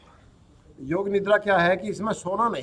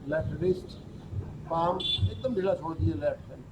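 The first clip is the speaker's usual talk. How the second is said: yoga nidra instructor's voice, softer than explaining; guided relaxation; 7 dB quieter than usual. Acted. Teacher leads students through yoga nidra, guided relaxation. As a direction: guide the body into rest, with long pauses.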